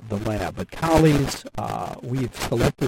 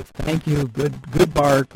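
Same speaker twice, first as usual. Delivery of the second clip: praising the bark; 2 semitones higher, 3 dB louder, much slower than usual. Shown as a demonstration. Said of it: "you say".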